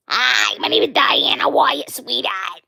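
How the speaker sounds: loud, put-on character greeting; female character's voice. Shown as a demonstration. Streamer demonstrating her character introducing herself, loud put-on voice. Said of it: "She talks like that".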